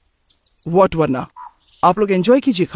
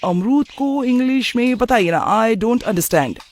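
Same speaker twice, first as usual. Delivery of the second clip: drawn-out, higher-pitched grumble; exasperated complaint; 5 semitones higher, slower than usual. Acted. Son asking elders for the English word, exasperated complaint. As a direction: drag out the words in exasperation.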